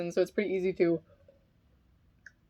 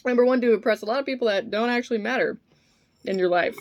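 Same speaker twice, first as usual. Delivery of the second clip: talking with food in mouth; chewing between words; mouth full; 4 semitones higher, 3 dB louder, faster than usual. Real, not acted. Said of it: "I'm eating Finding Nemo right now".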